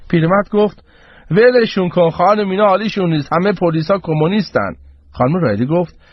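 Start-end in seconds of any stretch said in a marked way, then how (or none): 1.3-4.7 put-on higher-pitched, agitated old man; old man's rant. Old man rants at the crowd. (پیرمردِ معترض، با صدای زیر)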